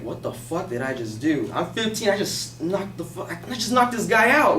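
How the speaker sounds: hushed start, rising in pitch; stunned disbelief, retold. Retold shock after knocking man out.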